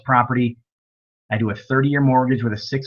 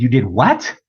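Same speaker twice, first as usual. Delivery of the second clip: shocked; 5 dB louder, slower than usual. Retold or imitated. Shocked at student's call.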